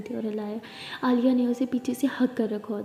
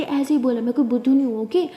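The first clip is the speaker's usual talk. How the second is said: louder huffy retort; mock indignant; 7 dB louder than usual. Wife insists she is no fool, louder mock indignation. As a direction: stand your ground in pretend anger. Acted quarrel continues.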